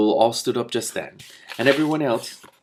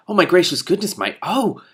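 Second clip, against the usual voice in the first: high, louder flustered squeak; 8 semitones higher, 5 dB louder than usual. Acted. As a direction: squeak in shocked surprise. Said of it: "he squeaked".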